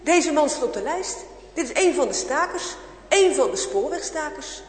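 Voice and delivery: loud, triumphant soldier voice; gloating soldier. Acted. Soldier loudly calling his comrade over the list. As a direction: crow over the catch to a comrade. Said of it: "hij roept zijn kameraad erbij".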